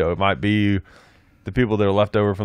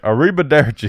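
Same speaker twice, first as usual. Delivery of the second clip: country arrivederci; 4 semitones higher than usual. Retold or imitated. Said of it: "Brad Pitt's character is like".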